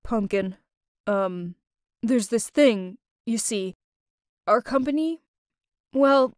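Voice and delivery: a worried dad asking for help; unhappy. Acted. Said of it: "He didn't sound happy at all".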